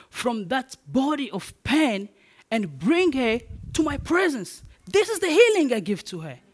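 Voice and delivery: a lightly voiced, declaring God. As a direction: speak as God answering a grieving man. God's voice in retold revelation.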